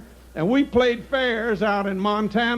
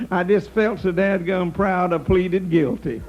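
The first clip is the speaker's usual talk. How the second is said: chuckling while delivering the line; can't quite hold back the laugh at the end of the joke; laughing through the punchline; 3 semitones lower than usual. Real, not acted. Delivering the old man's punchline to the audience while laughing.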